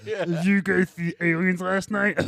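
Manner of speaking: put-on high, slow childish question; kid voice. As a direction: ask like a giddy kid. Continuing silly kid voice.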